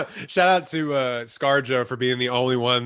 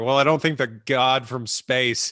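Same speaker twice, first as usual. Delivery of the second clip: laughing quote. Retold or imitated. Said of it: "he's like".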